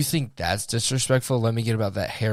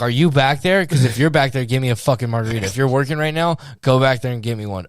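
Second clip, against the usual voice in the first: retold heated retort; 3 semitones higher, 5 dB louder than usual. Acts out arguing back at woman.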